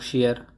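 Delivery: शेयर, opening on sh instead of ch; mispronunciation. Shown as a demonstration. Teacher quoting how people misread cheer, wrong शेयर with sh. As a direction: say शेयर with a "sh" start. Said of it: "शेयर, चीयर नहीं".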